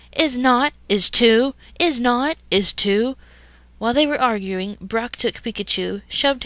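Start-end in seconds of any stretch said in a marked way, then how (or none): 0.1-3.2 put-on childish bickering.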